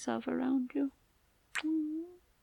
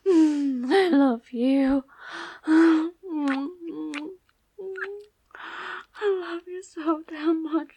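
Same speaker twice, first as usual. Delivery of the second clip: tearful love; 4 dB louder than usual. Acted.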